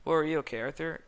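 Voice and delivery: sudden alarm at a friend's coughing. A narrator's reading.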